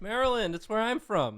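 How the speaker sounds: high, exaggerated New York voice; New York accent. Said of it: "You can't stop doing the New York voice".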